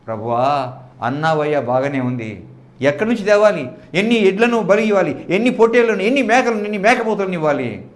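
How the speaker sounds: disbelieving, pushing back; doubting Moses. Acted.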